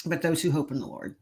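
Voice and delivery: soft imitation of a whispered verse; retold whisper. The voice heard a third time from behind, retold whisper. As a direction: drop the volume, lightly suggesting a whisper. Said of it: "I heard the whisper for the third time".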